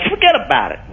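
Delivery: Irish American, "Forget about it" lilting up at the end; Irish American lilt rising on "it"; Irish American accent with a rising end. Shown as a demonstration. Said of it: "You'd go".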